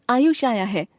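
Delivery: understated exclamation of surprise, falling at the end; mild astonishment. Shown as a demonstration. Teacher showing the exclamation mark, mildly astonished. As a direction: exclaim it with a touch of wonder. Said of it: "आश्चर्य का भाव".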